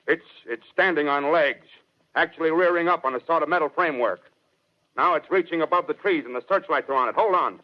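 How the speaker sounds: steady report cracking into fear as it rears up; growing alarm. Acted. Officer sees the machine rising.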